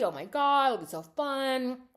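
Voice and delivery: high, loud mock excitement; gushing. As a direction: act out giddy party enthusiasm. Acting out everyone's excitement about baby.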